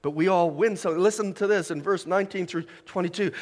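usual speaking voice

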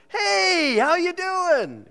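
loud, high, drawn-out holler; Darren's booming greeting. Retold or imitated. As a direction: imitate an over-eager greeter hailing a newcomer. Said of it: "Darren's gonna go".

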